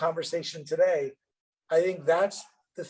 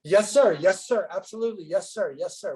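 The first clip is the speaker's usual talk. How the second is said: eager deference; 3 semitones higher than usual. Retold or imitated. Retelling his eager yes to banker.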